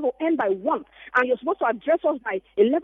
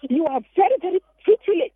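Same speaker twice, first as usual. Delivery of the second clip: higher, mocking retort leaning on "pretty" in "pretty late"; mocking professor; 5 semitones higher than usual. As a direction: stress "pretty" as a sarcastic professor would. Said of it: "He said".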